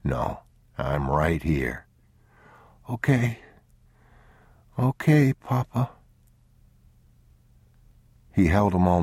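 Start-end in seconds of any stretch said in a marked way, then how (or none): 0.0-1.9 low, slow, soft reassurance; calm a frightened child; soothing father. Acted. 2.9-5.9 lightly voiced sick child, higher; a small boy feeling ill. Boy answers.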